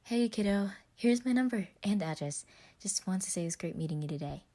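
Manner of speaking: bright, loud big-brother voice; upbeat brother texting; Roman voice. Acted. Roman's text voiced by narrator.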